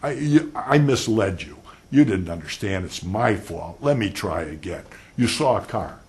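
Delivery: loud, gushing apology to the witness; imitating a sugary, sorry lawyer; overly apologetic lawyer. Lawyer apologizing sweetly to a silent witness, loud and gushing. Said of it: "it is incredible the way she does that".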